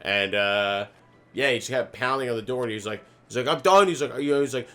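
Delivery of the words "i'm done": imitating a livid man, high and loud; mock furious announcement; livid outburst. Lawn guy pounding on the door, livid outburst.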